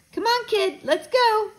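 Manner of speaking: put-on high, urging call to a kid. A narrator's reading. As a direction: call out to get a kid moving. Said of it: "the cameraman called".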